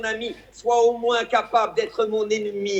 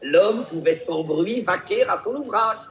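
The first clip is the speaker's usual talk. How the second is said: Fabrice Luchini impression. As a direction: declaim like a hammy stage actor. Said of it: "celui qui déclame de façon extraordinaire cette fable".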